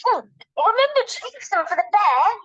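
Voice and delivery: high voice, mouth full. Acted. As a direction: talk through a mouthful. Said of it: "speaking with her mouth quite full".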